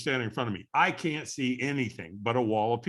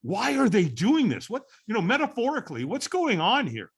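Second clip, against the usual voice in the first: baffled disbelief; 7 semitones higher than usual. Retold or imitated. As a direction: act out a brain asking what on earth. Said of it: "my brain is going".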